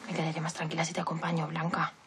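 quiet. Acted. Worried friend insists softly.

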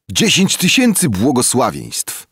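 high, loud squealing thanks; shrill yell. A narrator's reading. Boy shrieking thanks to the generous woman, high and loud. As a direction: squeal the blessings out. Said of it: "darł się Kim piskliwie".

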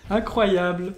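slow, amazed laugh through the word; delighted chuckle on incroyable. Real, not acted. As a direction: laugh it out in disbelief. Delighted after killing opponent.

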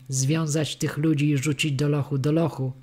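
usual speaking voice

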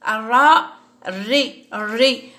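الراء، الري with the r doubled and no L; shadda on ra. Shown as a demonstration. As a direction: roll and hold the r in الري. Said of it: "فوقها شدة".

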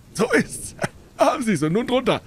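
hohe, laute Händlerstimme; triumphierender Händler. A narrator's reading. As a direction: auftrumpfend den Kunden abfragen. Dealer triumphs over Holmes. (rechthaberischer Geflügelhändler)

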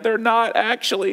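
mock-tearful child insisting, without real sobs; crying child, imitated. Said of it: "And he's crying".

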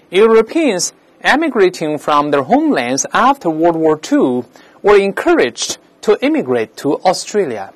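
slow, deliberate teacher reading; model sentence reading. Shown as a demonstration. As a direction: read it out slowly for language learners. Teacher reads out an example sentence.

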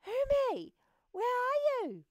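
very high, loud, thrilled shout; excited call. Acted. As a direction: call out excitedly for a lost friend. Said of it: "heard his friend's voice and was excited".

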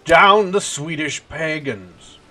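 mock battle cry. Roleplaying battle cry in game.

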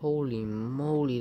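loud, amazed holy moly; excited exclamation. Real, not acted. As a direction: burst out in amazement. Reacts to an insane moment.

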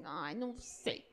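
soft, low discouraged sigh; mock discouraged. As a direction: sound like a shy, unsure kid. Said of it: "Eu falei assim". (desanimado, baixinho)

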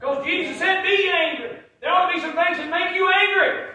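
high, shouted sermon; full-force preaching. Real, not acted. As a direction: proclaim it loudly to the whole church.

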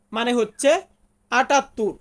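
ordinary talk

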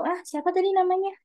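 high, quick puzzled audience member; confused listener. Retold or imitated. Teacher voicing a confused audience member. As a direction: ask like you missed the name. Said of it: "Jadi mereka nggak tahu".

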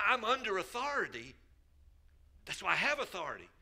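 loud, fast, high glib quote; glib slogan. Retold or imitated. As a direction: toss it off like a catchphrase. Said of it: "for somebody to say".

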